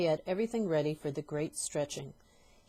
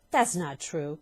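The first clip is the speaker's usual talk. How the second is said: protesting cry; 5 dB louder, slower than usual. Acted. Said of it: "cried Missus Twit".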